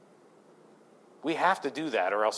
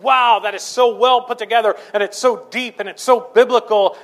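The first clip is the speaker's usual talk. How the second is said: awed; 8 semitones higher, 9 dB louder than usual. Retold or imitated. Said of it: "and you're like".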